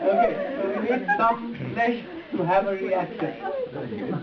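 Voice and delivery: slow words still full of laughter; laughing. Real, not acted. Teacher to class, still laughing slowly. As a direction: talk on through the laugh, slowly.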